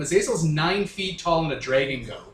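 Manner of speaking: loud, insistent correction; emphatic correction. Real, not acted. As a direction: set the record straight firmly. Emphatic correction about Azazel.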